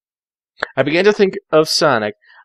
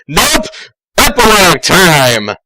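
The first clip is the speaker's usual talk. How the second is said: excited announcement; 3 semitones higher, 5 dB louder than usual. Real, not acted. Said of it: "announcing epilogue".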